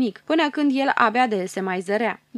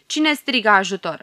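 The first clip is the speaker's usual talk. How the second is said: surprised; 6 dB louder than usual. Acted. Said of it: "întrebă el mirat".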